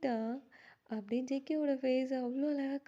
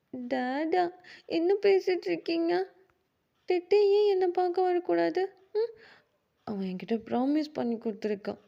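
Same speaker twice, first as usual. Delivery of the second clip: put-on high, loud child's whining; a small boy begging not to lose his friend; pleading little boy; 3 semitones higher, 7 dB louder than usual. Kuki begging his father and JK, loud high child voice.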